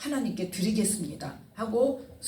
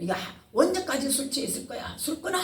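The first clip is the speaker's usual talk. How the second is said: mock scolding; 6 semitones higher than usual. Eli scolds Hannah again.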